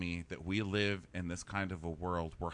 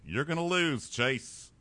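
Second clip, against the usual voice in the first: mock taunting; 5 semitones higher, slower than usual. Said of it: "taunting Chase".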